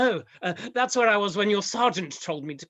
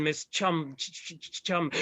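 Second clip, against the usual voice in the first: falter, then stutter on the first sound; halting, stammered attempt at a name; stuck stammer; 3 semitones lower, 4 dB quieter than usual. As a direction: struggle to get the name out. Vicar stuck stammering on her name.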